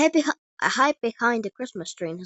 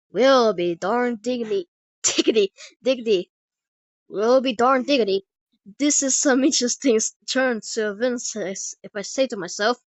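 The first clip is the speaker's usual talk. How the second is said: put-on heavy Texan cowboy accent; 2 semitones higher, 4 dB louder than usual. Cowboy arrives to face a giant, loud heavy Texan accent. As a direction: play it big as a Texan cowboy. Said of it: "in a heavy Texan cowboy accent".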